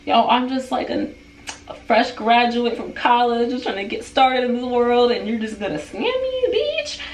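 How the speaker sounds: outraged, voice rising to a peak; indignant rant. Real, not acted. Venting about being scammed.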